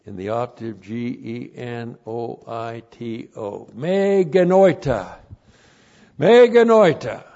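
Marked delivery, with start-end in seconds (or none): 3.7-7.2 loud high denial, stronger on the repeat; emphatic. Shown as a demonstration. Teacher demonstrating the strongest negative in Greek, emphatic. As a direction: hammer it home, building in force. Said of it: "It's the strongest negative".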